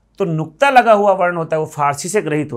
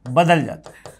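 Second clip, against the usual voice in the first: dictation pace; 3 dB quieter than usual. Shown as a demonstration. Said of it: "note लगा के लिख देता हूँ".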